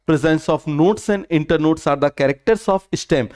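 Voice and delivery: very slow, measured summary line; slow recap dictation. Shown as a demonstration. Teacher repeating the key line slowly to students. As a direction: restate it slowly for them to note. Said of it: "पूरा का पूरा concept आपको clear हो गया?".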